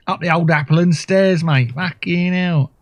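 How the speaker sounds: mock Cockney voice. Player botching rhyming slang on purpose, mock Cockney accent. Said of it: "I know I'm getting it wrong".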